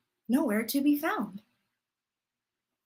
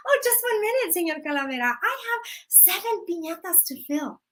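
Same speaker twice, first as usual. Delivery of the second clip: grandma stalling; 3 semitones higher, faster than usual. Acted. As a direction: sweetly beg for one more minute. Grandma stalling Death again.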